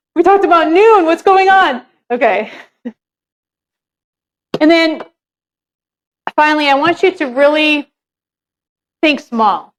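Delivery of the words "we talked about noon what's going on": panicked, freaking out. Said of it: "she's, like, freaking out".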